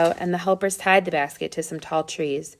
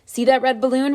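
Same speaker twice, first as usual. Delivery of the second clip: yelling; 7 semitones higher than usual. A narrator's reading. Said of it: "Randy yelled".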